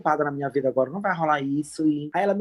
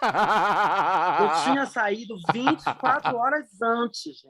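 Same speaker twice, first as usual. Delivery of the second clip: laughing; slower than usual. Real, not acted. Laughing at own mistake.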